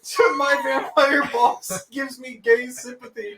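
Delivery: high, laughing through the question; can barely get the words out for laughing; laughing hard. Real, not acted. Director laughing at scene.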